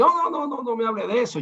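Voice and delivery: high, brushing-off no no no; dismissive pastor. Retold or imitated. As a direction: wave the brother off, mocking. Pastor waves off the Bible. (imitando con desdén a un pastor)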